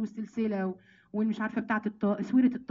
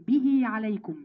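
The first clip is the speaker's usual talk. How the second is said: به عليكم set apart as a short emphatic unit; added عليكم; slower than usual. Shown as a demonstration. Teacher points out the extra word to students, stressing به عليكم. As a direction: point out عليكم right after به. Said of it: "بزيادة عليكم".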